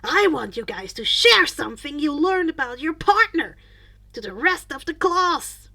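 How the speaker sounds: loud, high, cheerful teacher; upbeat hero-teacher calling out to the class; happy teacher announcement. A narrator's reading. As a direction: announce it brightly to the whole class. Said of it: "Mike announced happily".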